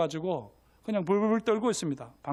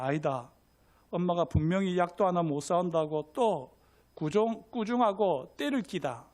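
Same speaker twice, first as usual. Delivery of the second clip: retold children's talk in Gyeongsang dialect. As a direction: argue it out with a light Gyeongsang lilt. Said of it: "경상도 사투리로 할게요".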